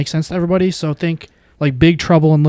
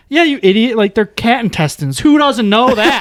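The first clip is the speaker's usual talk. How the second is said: higher-pitched imitation of a scoffing cop; mock scorn; 6 semitones higher than usual. Cop telling the guy off over cat intestines, mock scorn. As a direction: scoff in a raised voice, imitating someone exasperated.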